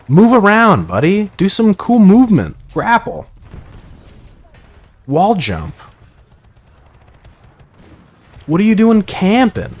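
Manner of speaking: high-pitched pleading at a camping player; high, incredulous goading; exasperated heckling. Real, not acted. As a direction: egg the idle player on in a high voice. Mock-coaching a camper in the game.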